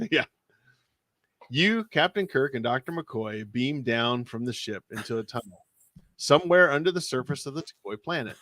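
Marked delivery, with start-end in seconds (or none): 1.5-8.4 measured read-aloud narration, voicing the captain's lines lightly; story narration. Host reading a Star Trek gamebook to co-host, storyteller narration. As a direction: read the adventure to the listener like an audiobook.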